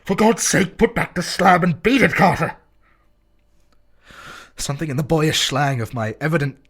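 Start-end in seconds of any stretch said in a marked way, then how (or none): 0.0-2.6 high, loud frantic plea; desperate shout. Acted. Warren pleading up to Carter, frantic shout. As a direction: yell up in panic.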